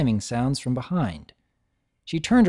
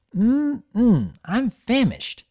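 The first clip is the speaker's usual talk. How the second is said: hungry relish; 9 semitones higher, 4 dB louder, much slower than usual. A narrator's reading. Bon Bon eyeing soup menu.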